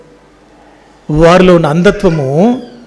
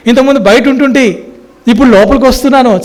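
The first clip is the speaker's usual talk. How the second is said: high, joyful cry of thanks; joyful shout; 6 semitones higher than usual. Pretend. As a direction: cry out your thanks like a healed man. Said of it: "సంతోషంగా అరవాలి కదా".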